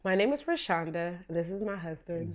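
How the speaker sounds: hoarse, worn-out voice; lost voice. Real, not acted. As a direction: push through with a lost voice. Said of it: "as you can hear, I've lost my voice".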